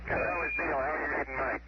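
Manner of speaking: radio transmission; crackly radio voice; over walkie talkie. Real, not acted. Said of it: "loud and clear now".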